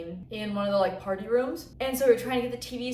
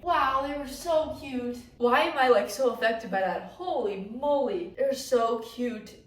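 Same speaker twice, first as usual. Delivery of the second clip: emotional; 3 semitones higher, slower than usual. Real, not acted. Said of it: "I'm crying".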